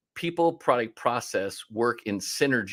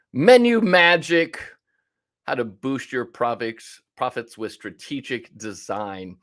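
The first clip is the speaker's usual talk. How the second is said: announcing a title; 5 dB louder, slower than usual. Real, not acted.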